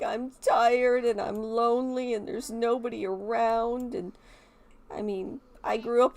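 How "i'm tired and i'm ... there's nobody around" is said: lightly voiced tired, lonely toddler, a bit higher; a hint of a sad little kid complaining; whiny toddler voice. Player voicing her crying toddler sim, mildly whiny. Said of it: "She's like".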